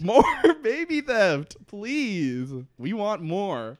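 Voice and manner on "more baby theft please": laughing through the words; giggling mid-sentence. Real, not acted. Laughs mid-phrase, delighted.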